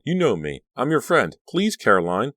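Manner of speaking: high, pleading; desperate plea. A narrator's reading. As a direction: beg her to remember. Pleading with monster friend.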